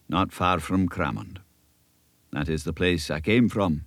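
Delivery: lightly voiced elderly Scottish minister, earnest; a kindly country minister giving counsel; old Scots minister. Minister advising young Davy, a light Scots earnestness.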